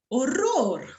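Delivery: theatrical exclamation of dismay; dramatic exclamation. Shown as a demonstration. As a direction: ham up the horror. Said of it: "O podría decir".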